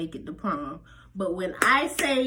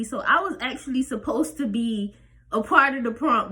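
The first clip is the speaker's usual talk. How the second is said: retold tearful plea; 3 semitones higher than usual. Upset teen wants to skip prom.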